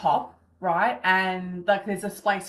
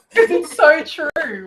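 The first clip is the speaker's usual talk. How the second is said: moved, near tears; 7 semitones higher, 8 dB louder, slower than usual. Real, not acted. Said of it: "having a bit of a cry".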